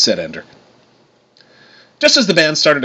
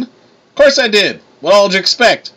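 fake southern accent; 10 semitones higher, 4 dB louder than usual. A narrator's reading. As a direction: boast like a hammed-up southerner. Tyr brags in fake southern accent.

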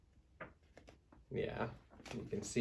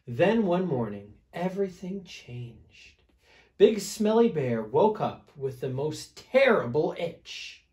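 put-on animated read-aloud to small children; storybook narration; 5 semitones higher, 7 dB louder than usual. A narrator's reading. Reader telling children about an itchy bear, lively storytelling. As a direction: tell it with stressed key words and swooping pitch.

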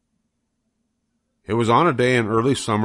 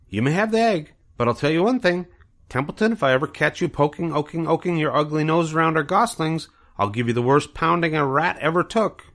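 much higher, quick stammering gander threat; threatening gander; 9 semitones higher than usual. Acted. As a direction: warn the rat off the goslings.

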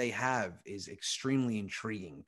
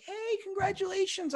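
mock cheerful congratulating. Shopper congratulates a local comedian, high cheerful shout-out. Voices well-wishers at the store.

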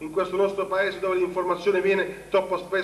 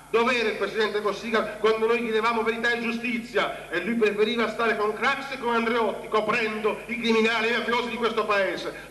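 indignant; 5 semitones higher than usual. Real, not acted. Rhetorical accusation against Cossiga.

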